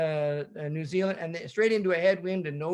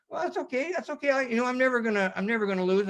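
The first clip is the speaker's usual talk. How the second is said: high upbeat self-talk; 6 semitones higher than usual. Retold or imitated.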